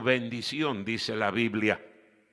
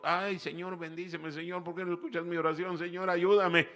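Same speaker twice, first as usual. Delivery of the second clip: mock whining prayer; 4 semitones higher, faster than usual. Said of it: "luego estamos chillando".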